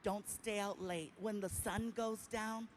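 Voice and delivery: lightly voiced Indian accent warning; a mild Indian-accented caution, sinking to a whisper. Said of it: "I love his accent".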